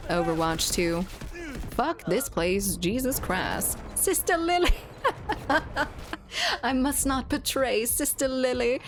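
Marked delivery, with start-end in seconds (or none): 3.9-8.8 put-on high, strained squeal of a smitten anime boy; anime character voice. Streamer imitating a smitten anime boy's high squeal. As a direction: mimic a lovestruck anime hero crying out. Quoting Black Clover character.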